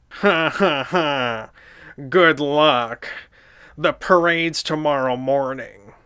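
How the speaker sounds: slow mocking Squidward laugh and taunt. Squidward mocking the two goof-offs about the parade. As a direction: sneer at them like Squidward. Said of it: "The guy that does the voice of Squidward".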